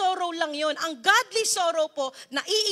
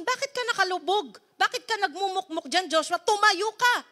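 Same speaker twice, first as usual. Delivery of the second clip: God's rebuke; 5 semitones higher than usual. Acted. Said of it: "sabi niya sa ibang translation".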